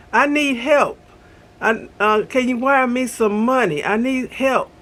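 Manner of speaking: lightly voiced pleading teen; teenager in need. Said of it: "sound like a teenager in need".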